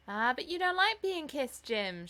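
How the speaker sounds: high, loud teasing cry. A narrator's reading. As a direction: exclaim playfully to your brother. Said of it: "she cried".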